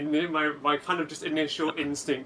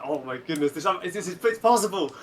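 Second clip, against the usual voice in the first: excited; 3 semitones higher than usual. Retold or imitated. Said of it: "I was like".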